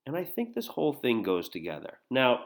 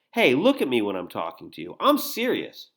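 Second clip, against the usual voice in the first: mildly angry reading, louder on the demand; a little angry; 5 dB louder than usual. Acted. Danny demanding Jill look at him, a little angry. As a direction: act out a touch of anger, pushed louder. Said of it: "he just got a little angry".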